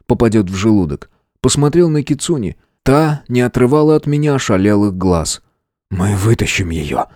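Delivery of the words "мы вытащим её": firm. A narrator's reading. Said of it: "твёрдо сказал я".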